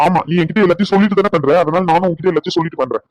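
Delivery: irritated, pointed tit-for-tat; angry retort. Acted. Husband pays wife back for merely informing him, angry retort. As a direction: throw it back at her, annoyed. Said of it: "ஏங்க கோவப்படுறீங்க".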